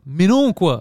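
imitated French-from-France catchphrase; hammed-up French accent; mock French from France. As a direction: parody a protesting Frenchman. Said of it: "Ils disent beaucoup ça".

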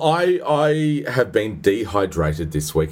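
slow, drawn-out mock-solemn delivery; milk each word for drama, slowly; a mock-grave announcement, said slowly; dramatic emphasis. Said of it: "put a little bit of dramatic emphasis on this".

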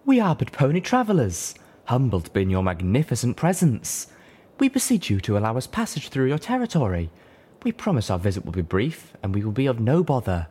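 loud, high and stately plea; majestic address. Acted. Velvet Remedy beseeches the dragons for passage, loud and majestic. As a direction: address royalty with grand courtesy. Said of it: "magnified majestically".

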